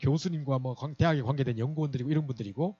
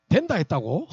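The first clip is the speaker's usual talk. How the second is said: surprised retort; 2 semitones higher, 6 dB louder, slower than usual. Retold or imitated. Senior pastor's surprised retort.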